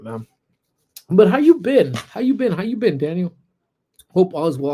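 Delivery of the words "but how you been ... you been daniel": excited greeting. Real, not acted. Greeting arriving member.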